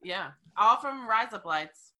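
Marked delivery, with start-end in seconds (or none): 1.1-1.9 fake Australian accent trick. Shown as a demonstration. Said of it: "sound like you're saying razor blades with an Australian accent".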